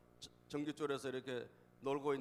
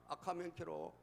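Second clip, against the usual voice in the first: dialect warning; 4 dB quieter than usual. Acted. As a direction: play a sparrow calling out a warning. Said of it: "문경세제 참새가 알려준 거야".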